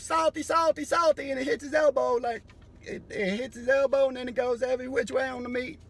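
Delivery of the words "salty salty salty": higher, louder singsong salty; mock Salt Bae. Imitating Salt Bae seasoning meat, singsong. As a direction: croon it while sprinkling salt. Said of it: "he goes".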